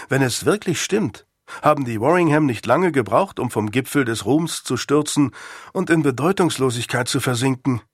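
a hint of a rueful young pupil; lightly voiced schoolboy, wry. Boy tells Sir Thomas of family's fall, lightly wry. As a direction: lightly play a boy belittling his family legend. Boy Nick's dialogue in story.

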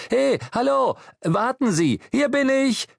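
urgent high-pitched shout for attention; high, anxious hailing cry; calling out. A narrator's reading. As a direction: call out to stop someone leaving. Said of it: "rief er".

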